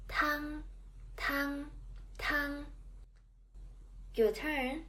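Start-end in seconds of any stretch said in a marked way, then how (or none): 0.1-2.6 "Tang" held high and level; first tone tang. Shown as a demonstration. Teacher modelling the first tone word "Tang" for learners. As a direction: keep "Tang" on one high steady pitch.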